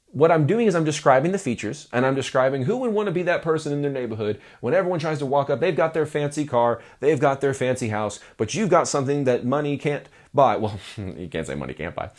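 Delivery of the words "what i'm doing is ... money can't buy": sales voice. Shown as a demonstration. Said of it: "my fun little sales voice".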